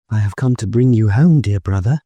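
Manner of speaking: a small sister calling her brother home; little girl. A narrator's reading. Little sister fetching her brother, lightly high child voice.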